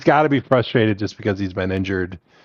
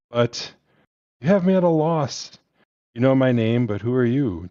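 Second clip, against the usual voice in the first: put-on German accent; 3 semitones higher than usual. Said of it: "this is gonna be a terrible German accent".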